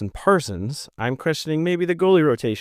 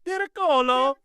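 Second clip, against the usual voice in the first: sing-song name call; 13 semitones higher than usual. Pretend. Playfully shouting a player's name.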